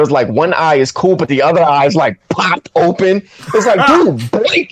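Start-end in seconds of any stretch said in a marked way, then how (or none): 3.9-4.7 high-pitched mock begging; comically desperate appeal; exasperated plea. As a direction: plead with the screen, half laughing at it. Acted plea to actor on screen.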